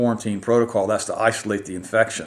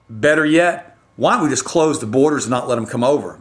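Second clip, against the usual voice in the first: frustrated sarcasm; 3 semitones higher, 3 dB louder than usual. Real, not acted. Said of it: "I'm just very frustrated right now".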